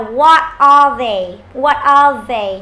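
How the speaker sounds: slow, loud "What are they?", clear TH in "they"; voiced TH in THEY. Shown as a demonstration. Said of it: "Nhớ âm T H này".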